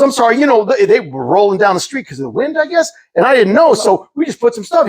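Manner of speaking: high, sweetly apologetic voice; nice drug dealer. Retold or imitated. Drug dealer apologizing to his neighbor, high and friendly. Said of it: "actually a nice drug dealer".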